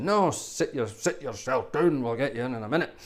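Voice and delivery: a hint of a Scottish barber, slowed a touch; lightly put-on Edinburgh accent, not convincing; half-hearted Edinburgh barber voice; weak Edinburgh accent. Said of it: "It's not a very good Edinburgh accent".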